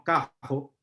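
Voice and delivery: "cajo" said with a throaty, dragged R in "carro"; "cajo" with a back-of-the-throat R. Shown as a demonstration. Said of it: "Arrastramos la R".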